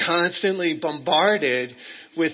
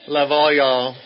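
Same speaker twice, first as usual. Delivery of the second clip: Texas drawl; 9 dB louder, slower than usual. Shown as a demonstration. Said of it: "'cause I'm from Texas now".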